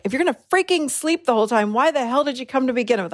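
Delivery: quick, mildly irritated rant; ticked off. Retold or imitated. Silently berating the sleeping snorer, ticked off. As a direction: rattle it off as a peeved inner complaint. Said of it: "ticked off".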